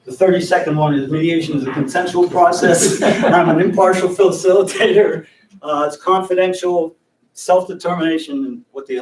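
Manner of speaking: rushed quick version, laughing; laughing demo. Shown as a demonstration. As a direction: rattle it off while chuckling. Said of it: "That's the two-minute one".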